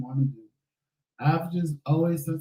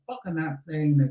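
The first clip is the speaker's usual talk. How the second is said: angry shout. Retold or imitated. Retold outburst at dialysis.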